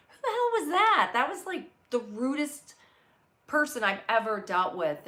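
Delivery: high, loud mock tirade; retold outrage. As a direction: act out a shopper blowing up over bad service. Acts out outraged shopper's complaint.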